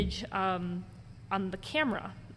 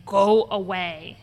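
slow, drawn-out robotic ghost; lightly imitated robotic spirit; guttural robotic voice; 5 dB louder, slower than usual. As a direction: imitate a guttural machine-like EVP voice. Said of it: "has a guttural robotic sound".

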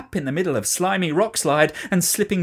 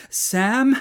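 higher urgent call; 8 semitones higher, 4 dB louder than usual. A narrator's reading. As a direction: call his name in alarm. Calling out near cliff.

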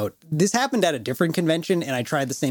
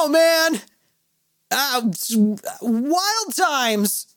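much higher sheepish shrug; high, squeaky caught-out excuse; 11 semitones higher, slower than usual. Retold or imitated. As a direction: play it innocent and caught. Sheepish retort to Stratton.

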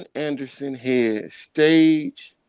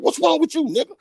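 mock girlfriend voice pitched way up; imitating his girl; 13 semitones higher, faster than usual. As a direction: squeak it like a scolding girlfriend. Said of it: "She like".

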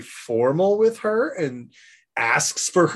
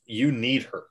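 imitated prophetic warning; 7 semitones lower, 5 dB quieter than usual. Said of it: "Min has a viewing and says".

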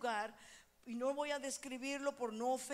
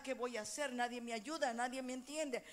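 mock lament; 5 dB quieter than usual. Voicing a lamenting believer.

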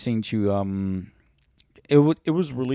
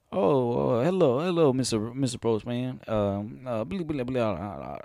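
put-on Daniel Craig accent; 3 semitones higher, slower than usual. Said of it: "I can't even do fucking his accent".

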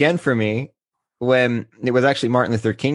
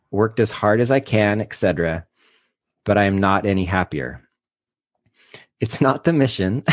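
emotional letter reading; 2 semitones lower than usual. Real, not acted. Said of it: "I wanna hear the cracks in his voice".

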